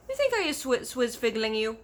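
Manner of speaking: loud, affronted giant; a giant stung by disbelief; giant's hurt, loud question; indignant giant. A narrator's reading. BFG indignant in story.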